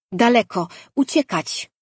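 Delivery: high, loud squeaky animal voice urging flight; a tiny pet begging to run far away; frightened little creature. A narrator's reading. The caged pet begs Danin to run far away, high and scared.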